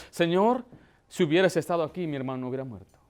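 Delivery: understated broken-hearted plea; contrite, humble. Acted. Mary bowed before the Lord over her brother's death, humbly. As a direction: sink low and soft by the end. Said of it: "de un corazón contrito y quebrantado".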